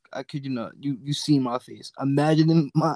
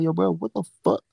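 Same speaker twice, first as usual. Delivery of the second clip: 1 surprised; 5 semitones higher than usual. Retold or imitated. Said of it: "I'm like".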